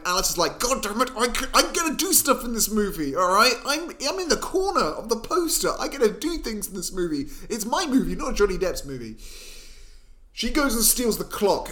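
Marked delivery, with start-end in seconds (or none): 0.6-9.2 higher-pitched, insistent comic complaint; mock indignant protest. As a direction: protest like a put-out leading lady. Voicing Alice's protest to Time.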